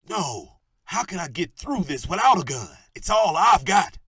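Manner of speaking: high, loud rising panic; panicked outburst. Acted. Cornered gunman pleading with Sergeant Bullock, panicking. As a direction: voice climbing into hysteria.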